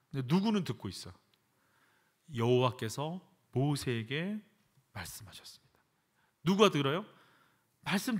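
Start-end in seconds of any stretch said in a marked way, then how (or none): 2.3-5.7 slow, fading to a whisper; hushed reading. Acted. Preacher to congregation, slowly fading into a whisper. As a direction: draw it down to a whisper.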